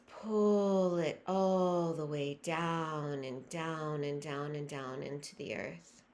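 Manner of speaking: slow fade downward, as if pulled by gravity; sinking meditative descent. Real, not acted. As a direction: let the voice sink down with each repeat. Guiding breath down into earth.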